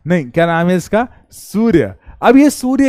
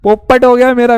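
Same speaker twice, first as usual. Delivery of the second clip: mock lament; 5 semitones higher, 5 dB louder than usual. Mock lament over lost dream.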